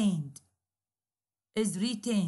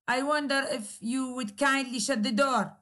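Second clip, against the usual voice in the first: very polite request. Shown as a demonstration. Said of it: "but it's very polite".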